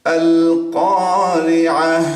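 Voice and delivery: slow recitation, pausing on কারিআহ; stopping form. Shown as a demonstration. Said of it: "এরকম একটা আওয়াজ হচ্ছে". (থেমে পড়া কারিআহ)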